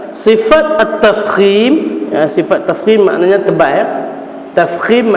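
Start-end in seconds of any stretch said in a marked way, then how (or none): 0.1-2.0 quoting the author. Shown as a demonstration. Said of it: "muallif kita".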